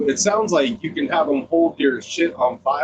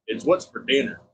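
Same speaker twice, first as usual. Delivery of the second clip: deep ad narrator; 4 semitones lower than usual. Retold or imitated. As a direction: read it like a beef commercial. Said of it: "was beef. Beef".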